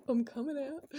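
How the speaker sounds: excited announcement. Real, not acted. To her viewers, declaring she's a starseed, loud and thrilled. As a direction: proclaim it like a big reveal.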